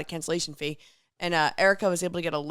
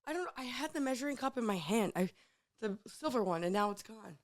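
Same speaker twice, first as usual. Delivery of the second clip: hoarse voice after a festival; 3 semitones higher, 9 dB quieter than usual. Real, not acted. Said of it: "I'm trying to get my party girl voice".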